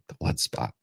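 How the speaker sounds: whispered repeat, unvoiced. Shown as a demonstration. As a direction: breathe it out as an aside.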